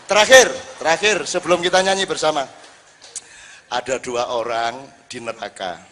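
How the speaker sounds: ordinary talk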